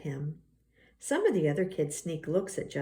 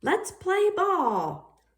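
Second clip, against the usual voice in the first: voiced JT; 12 semitones higher, 5 dB louder, much slower than usual. JT ending the team pick.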